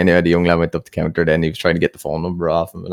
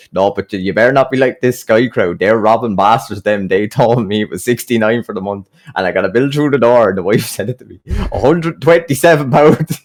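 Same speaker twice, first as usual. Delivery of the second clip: retold grievance, climbing higher and louder at the end; mock outraged rant; 4 semitones higher, 5 dB louder than usual. Customer complaining to young lad about robbing bastards, mock outraged rant. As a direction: imitate a customer working himself up. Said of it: "he must have ripped into the poor young lad".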